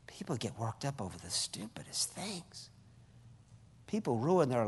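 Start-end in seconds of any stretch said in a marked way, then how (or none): 0.1-2.7 whispered aside, much softer. Real, not acted. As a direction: drop to a hushed whisper.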